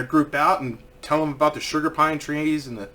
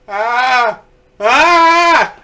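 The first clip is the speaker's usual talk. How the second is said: two mock screams, the second higher and louder; imitated rising scream; 7 semitones higher, 7 dB louder than usual. Little girl inches toward the branch, mock screams. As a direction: scream like an alarmed child. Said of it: "and she goes".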